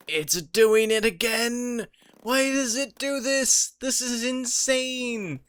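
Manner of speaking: real giddy shock at the bug; squealing with delight; excited disbelief. Real, not acted. Game bug repeats the noise.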